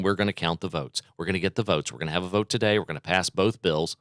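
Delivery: mock calm. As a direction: lay on a fake calm, quietly. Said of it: "Pelosi calmly saying".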